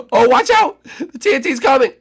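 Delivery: high, loud warning yell; alarmed shout. Real, not acted. Player shouts a warning to teammates about the TNT.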